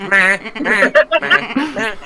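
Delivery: bleating meh like a sheep. Acted. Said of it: "I'm just".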